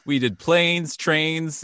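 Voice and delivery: high-pitched movie sidekick listing exploits; Roman. Acted. Quoting a film character's list of exploits, high comic voice. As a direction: pitch it well up, punching each item. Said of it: "and he says".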